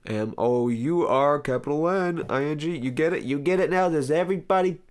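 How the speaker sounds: hammed-up outburst, pitch rising with each question; building exasperation. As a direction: spell it out, climbing to a high loud yell. Mock exasperated spelling-out of show name.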